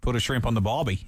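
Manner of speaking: rough attempt at Australian; Australian accent. Host trying the boss's accent, poor Australian. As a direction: have an amateur go at Aussie. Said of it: "now that's terrible".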